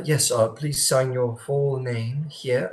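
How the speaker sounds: the greeter's line again, slow and not French this time; corrected greeter voice. Acted. Game master redoing the greeter's line to Cross, no French. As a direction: reset to the proper greeter voice, no French accent. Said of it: "wrong accent".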